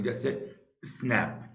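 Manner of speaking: स्नैप said as one single syllable; one-beat word. Shown as a demonstration. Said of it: "एक ही tone में".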